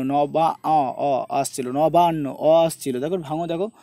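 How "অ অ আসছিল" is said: very slow, low অ held as a long open o; drawn-out vowel. Shown as a demonstration. Teacher isolating the vowel for students, slow low held অ. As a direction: sound out অ by itself, stretched and lower. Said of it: "এই জিনিসগুলোকে নবান্ন".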